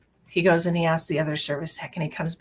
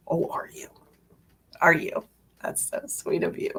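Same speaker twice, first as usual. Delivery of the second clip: sarcastic sweetness; 2 semitones lower than usual. Real, not acted. Sarcastic fake gratitude to mechanic.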